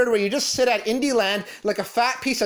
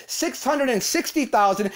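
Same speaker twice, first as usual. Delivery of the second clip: "sixty" pressed hard in "six hundred and sixty thousand"; stress on sixty. Shown as a demonstration. Ranter corrects the amount to Gerard, stressing "sixty". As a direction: lean on "sixty" to correct the figure. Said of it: "not six hundred K".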